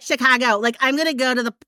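half-managed attempt at a Michigan accent. Shown as a demonstration. Host showing co-hosts her lost home accent, tentative Michigan accent. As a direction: try out your old Michigan accent on CHICAGO. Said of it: "if I can even do it now".

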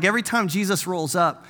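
usual speaking voice

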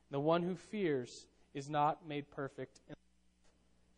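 slow, earnest Bible reading; scripture reading. Acted. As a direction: read the verses slowly and solemnly. Reads scripture aloud.

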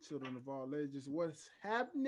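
booming showman welcome, drawn out; ringmaster. Acted. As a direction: announce it like a circus ringmaster. Hosts' ringmaster-style opening.

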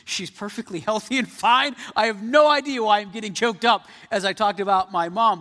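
laughing at himself. Retold or imitated. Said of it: "I got all choked up".

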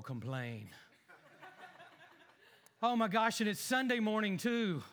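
groggy, grumbling half-awake man; grumpy just-woken husband. Acted. A grumpy husband waking on Sunday, lightly voiced. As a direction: moan about mornings from bed. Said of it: "my thespian ability".

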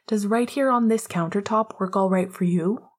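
mild customer-service politeness; a light polite shop voice. Acted. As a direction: ask it like serving a customer, sweetly. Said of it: "Remus asked politely".

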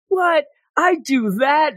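high-pitched retold disbelief; taken aback, acting out someone else; mock surprise. Retold startled reply to him.

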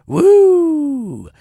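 high, loud announcer woo; hype yell. Acted. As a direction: scream it like a rally crowd.

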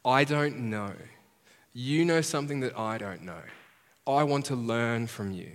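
a believer asking Jesus to teach him, humbly; humble prayer. Acted. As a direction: pray it gently, like a learner. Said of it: "which says to Jesus".

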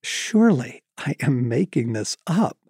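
measured read-aloud with deliberate pauses; book reading. A narrator's reading. Author reading a chapter to an audience, measured storytelling.

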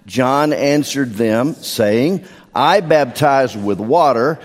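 slow, measured Bible reading; scripture reading. Acted. Pastor reading John aloud to the standing church, slow and measured. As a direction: read it steadily, each phrase weighed.

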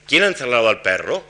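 "Quién ha encerrado al perro" rising at the end on "perro"; rising yes-no tune on a wh-question. Shown as a demonstration. Lecturer shows a question about the question with a final rise. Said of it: "aplicando el esquema ascendente de las totales".

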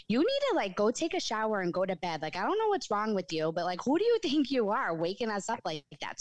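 retold angry scolding, only a hint of heat; mad. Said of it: "So I was so mad at him".

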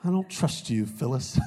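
quoting a sitcom accusation in jest; Office quote. Acted. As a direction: deliver a playful TV-comedy quote, falling away on the name. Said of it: "That's an Office reference".

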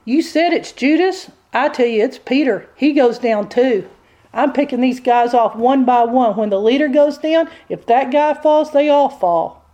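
a hint of the devil pressing his case; accusing devil. Devil tells God Peter goes down too, lightly acted accusing. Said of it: "The devil presents the evidence".

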